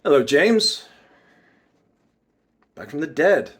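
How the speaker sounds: lightly menacing villain greeting; bad guy entrance, deliberate pauses; mysterious bad guy. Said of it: "bad guy mysterious vibes".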